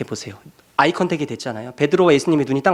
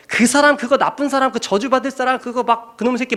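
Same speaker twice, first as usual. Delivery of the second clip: 높게 올린 흉내 낸 욕설; 스승을 내치듯 반쯤 연기한 저주; 욕하는 베드로; 9 semitones higher than usual. Retold or imitated. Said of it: "막 욕을 한 거예요". (예수를 부인하는 베드로, 높게 흉내 낸 욕)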